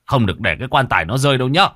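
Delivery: loud, fast urgent command; shouting. Acted. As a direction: bark the order as he rushes in. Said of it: "chạy đến hét".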